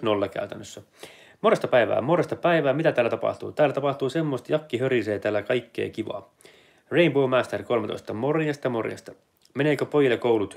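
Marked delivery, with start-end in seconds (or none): 2.0-2.7 higher, lilting repeat of morjesta päivää; sing-song greeting. Shown as a demonstration. Streamer cheerfully greeting his live chat, in a higher sing-song. 8.1-8.7 higher morjesta that falls away; sing-song greeting. Shown as a demonstration. Greeting Rainbow Master in chat, a higher sing-song hello.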